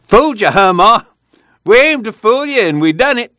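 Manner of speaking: high, gleeful storytelling; giggly glee. A narrator's reading. Son teasing Ma about fooling her, giggly glee. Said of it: "Old Tom giggled".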